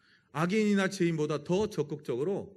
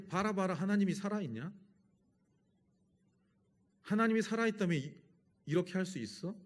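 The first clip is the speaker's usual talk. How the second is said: higher-pitched scoffing challenge, acted out; acted mockery; 5 semitones higher than usual. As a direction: imitate a scoffer daring God. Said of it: "하나님을 조롱하고 있어요". (조롱하듯 높은 톤으로 따지는 흉내)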